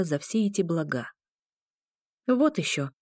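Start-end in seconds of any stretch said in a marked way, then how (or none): 2.3-2.9 higher-pitched dismissive retort; indignant inner protest. A narrator's reading. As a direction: scoff it as the voice of reason. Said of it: "твердило сознание".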